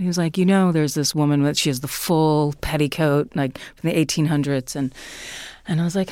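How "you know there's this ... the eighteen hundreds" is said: dry, matter-of-fact retelling. Retold or imitated. Friend casually mentioning the ghost in her house, dry. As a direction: report it drily, as nothing unusual. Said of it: "he's very dry about it".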